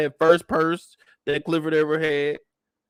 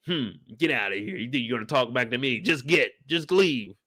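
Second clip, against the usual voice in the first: low, soft scolding mom voice; a hint of a stern mother shooing him out; upset mom; 4 semitones lower, 4 dB quieter than usual. The speaker scolding Uncle Clifford like an upset mom, low and soft. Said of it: "like an upset mom".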